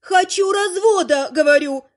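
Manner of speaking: loud mock shout, stress on хочу; hammed-up shout at a deaf husband. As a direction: yell хочу развода into his ear. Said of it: "кричу я".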